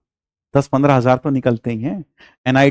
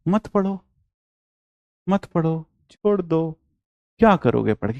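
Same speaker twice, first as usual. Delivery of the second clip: mock discouragement; 3 semitones higher than usual. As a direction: pretend to tell the student to quit studying, hushed and mocking. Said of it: "मजाक अलग".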